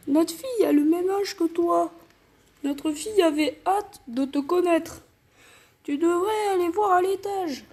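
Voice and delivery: mild dad voice; parent voice. Acted. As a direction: keep the goofy dad going, lightly. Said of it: "les darons, je vais faire des voix comme ça".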